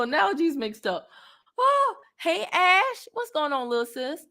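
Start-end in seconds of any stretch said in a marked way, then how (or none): 1.6-4.2 bright greeting. Real, not acted. Greeting someone arriving.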